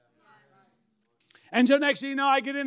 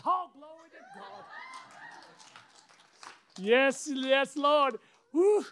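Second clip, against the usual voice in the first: joyful praise; 7 semitones higher, 3 dB louder, slower than usual. Retold or imitated. Joyful praise on getting car.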